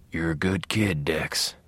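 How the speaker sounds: low, soft ghost voice; ghostly whisper. A narrator's reading. Dead father reassuring his son from behind, ghostly whisper. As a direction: murmur it low, like a phantom at the shoulder. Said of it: "whispered Harry from behind in his feather-hard ghost voice".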